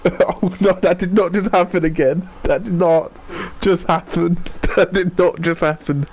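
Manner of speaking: high laughing disbelief; can't believe it, laughing; shocked laughter. Real, not acted. Repeats in disbelief.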